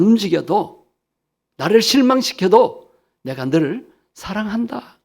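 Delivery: the Lord's voice rising as he asks Peter; earnest plea. Acted. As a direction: press the question home with growing force. Preacher voicing Jesus to Peter.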